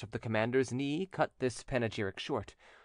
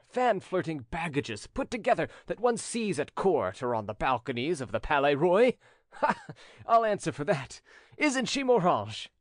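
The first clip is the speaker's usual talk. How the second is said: lightly voiced commander, higher and lively; a hint of a swaggering gallant; boastful commander; 5 semitones higher, 4 dB louder than usual. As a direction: hold forth with confident gallantry.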